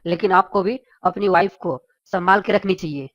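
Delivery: pompous chief minister. Acted. Chief minister phones Billa about the neighbour, official and low. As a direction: speak like a minister lecturing a citizen.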